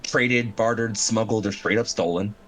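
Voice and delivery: measured, dramatic scene setting; game master narration. Acted.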